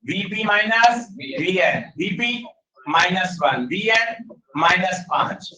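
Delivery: slow, stretched-out terms, one at a time; step by step. Shown as a demonstration. Teacher walking students through the sum, step by step. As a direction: spell out each step deliberately. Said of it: "आराम से एक एक step बढ़ाओ".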